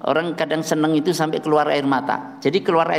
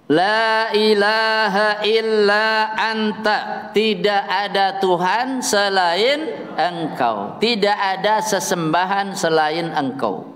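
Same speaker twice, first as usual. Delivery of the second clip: solemn recitation; 3 semitones higher than usual. Real, not acted.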